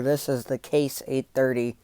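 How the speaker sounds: wheezing from asthma; wheezy voice. Real, not acted. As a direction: breathe audibly between words. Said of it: "Sorry if I'm wheezing".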